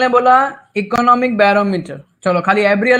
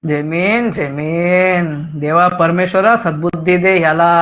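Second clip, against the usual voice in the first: low, drawn-out mock plea to God; mock prayer; 4 semitones lower, slower than usual. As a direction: pray in mock despair for the student. Mock prayer over student's wrong answer. (बनावटी प्रार्थना के अंदाज़ में)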